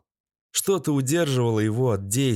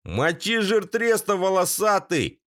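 spectator yelling; 8 semitones higher than usual. A narrator's reading. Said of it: "крикнул кто-то из зрителей".

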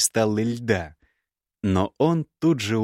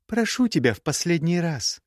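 put-on young woman's voice pitched higher, cool and cutting; higher, cool scornful young woman; Gerda's voice; 8 semitones higher than usual. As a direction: play the proud, scornful ex-bride.

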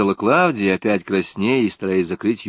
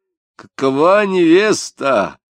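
higher, louder, slow proud call; shouting proudly; 8 semitones higher, 7 dB louder, slower than usual. Acted. Grandfather shows off his granddaughter to a guest, proudly shouting. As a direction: call out delighted at the little girl. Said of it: "крикнул Кричмаренко".

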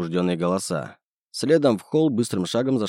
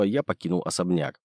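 plain reading voice

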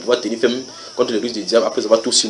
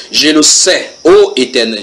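scripture reading; 3 semitones higher, 5 dB louder, slower than usual. Shown as a demonstration. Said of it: "je suis au verset vingt-trois".

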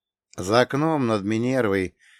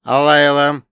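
solemn AI voice; 6 semitones higher, 11 dB louder than usual. Acted. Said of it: "продолжил Ц Б А".

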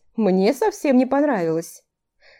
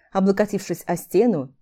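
usual speaking voice

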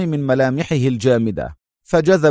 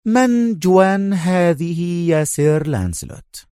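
slow, stern demand in a higher voice; stern slow challenge; sternly; 6 semitones higher, slower than usual. A narrator's reading. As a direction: question him like a strict officer. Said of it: "فسأله هذا الأخير في صرامة".

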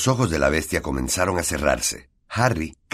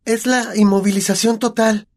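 anguished; 5 dB louder than usual. A narrator's reading.

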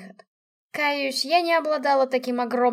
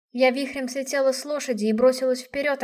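ordinary delivery, nothing marked

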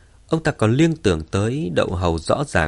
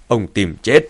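furious threat through gritted teeth; louder, teeth-clenched menace; 6 dB louder than usual. Acted. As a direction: grind the words out, barely holding back rage. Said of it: "nghiến răng nghiến lợi nói".

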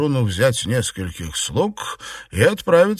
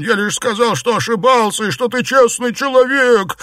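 desperate pleading; 11 semitones higher, 5 dB louder than usual. Acted. Xuepan pleads under blows.

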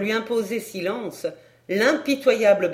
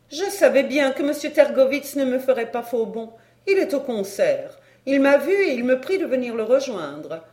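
lightly voiced lady, slightly raised pitch; foreign countess; 4 semitones higher than usual. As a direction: speak lightly as the assured countess.

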